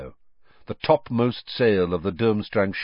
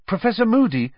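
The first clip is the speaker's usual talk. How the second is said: raised, high call across a crowd; Harry calling to Moody through a crowd of students, raised voice; 12 semitones higher, 4 dB louder than usual. A narrator's reading. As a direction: call his name over the crowd. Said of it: "Harry called".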